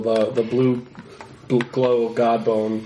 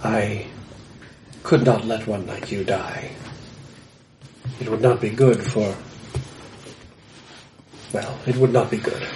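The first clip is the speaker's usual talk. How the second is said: gruff mountain man; 3 semitones lower than usual. Acted. Hermit speaks slowly.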